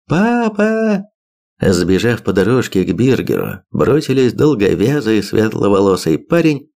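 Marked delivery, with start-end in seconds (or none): 0.1-1.0 put-on girl calling out. A narrator's reading. Daughter calls out to father.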